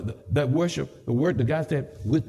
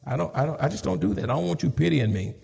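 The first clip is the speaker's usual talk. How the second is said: sick voice; 4 semitones lower, 5 dB quieter than usual. Real, not acted. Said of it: "I'm sick".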